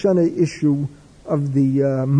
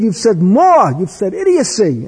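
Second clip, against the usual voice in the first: angry rebuke; 3 semitones higher, 4 dB louder than usual. Retold or imitated. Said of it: "Reb Chaim becomes hysterical".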